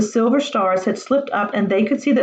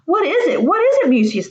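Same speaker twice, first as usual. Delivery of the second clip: higher, eager questioning; excited cry; 8 semitones higher, 3 dB louder than usual. Acted. The boys urging Mucius to explain, excited. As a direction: press him for the answer. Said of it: "they cried".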